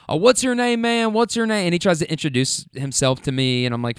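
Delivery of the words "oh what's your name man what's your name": high-pitched mimicry of an eager kid; mock eager introduction, pitched up; mocking imitation. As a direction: mimic him in a raised, level pitch.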